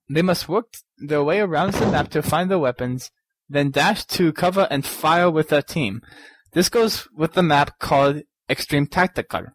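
a lightly hammed-up vampire accent, still reading the letter; Count Dracula accent. Host keeps reading the listener's game description in a mock Dracula accent. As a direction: keep the mock Transylvanian lilt going through the letter. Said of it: "I'll just keep on doing my Count Dracula".

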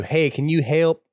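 put-on milk the country boy twang on the plea; country boy accent. Mocking Buck's plea in a country boy accent. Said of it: "in his best country boy accent".

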